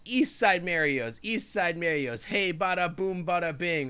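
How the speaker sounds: punchy imitation of a New York-style slogan; mock jingle. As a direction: recite a catchy commercial tagline. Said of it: "they have a, a jingle that says".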